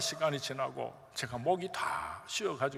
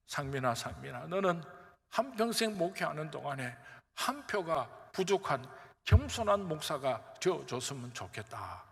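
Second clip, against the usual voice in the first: God's gentle voice; 2 semitones lower than usual. Retold or imitated. God speaking gently to pastor.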